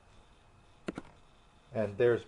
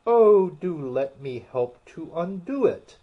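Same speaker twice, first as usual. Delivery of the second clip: high, louder eager offer; 6 semitones higher, 8 dB louder than usual. Acted. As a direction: jump in eagerly to help. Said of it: "looking anxiously about her".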